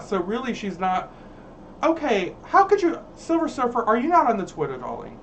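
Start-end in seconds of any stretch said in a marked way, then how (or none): 1.8-5.2 mock disbelief. Scolding the Silver Surfer commenter in mock shock. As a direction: gasp at them in fake shock.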